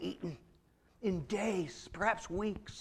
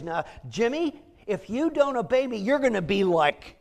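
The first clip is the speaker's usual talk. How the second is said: louder scolding parent; stern parent warning; 6 dB louder than usual. Retold or imitated. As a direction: warn a child sharply, a touch hammed-up. Parent voiced threatening child.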